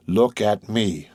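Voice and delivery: drawn out, every word weighed; slow, persuasive. A narrator's reading. Monte Cristo urging grieving Morrel, slow and persuasive. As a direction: hold his gaze and slow right down. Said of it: "with that expression which sometimes made him so eloquent and persuasive".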